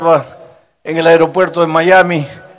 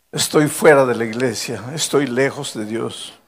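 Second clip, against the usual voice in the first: put-on tearful young man; 3 semitones lower than usual. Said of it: "Me dice".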